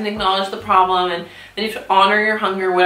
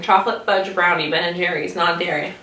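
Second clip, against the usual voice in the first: mouth full; 3 semitones lower than usual. Real, not acted. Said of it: "I talk with my mouth full".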